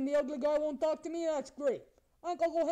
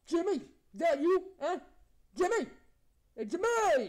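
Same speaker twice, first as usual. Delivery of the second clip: higher and louder shout of a name; calling out; 3 semitones higher, 3 dB louder than usual. Real, not acted. Prankster shouting Jimmy's name across the room. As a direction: call him over from afar.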